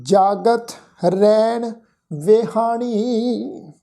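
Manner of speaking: slow, measured Gurbani recitation with drawn-out vowels; scripture recitation. Shown as a demonstration. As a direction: recite the sacred line word by word, stretching the endings. Recites the verse for students. (ਹੌਲੀ, ਲਮਕਾ ਕੇ ਗੁਰਬਾਣੀ ਪਾਠ)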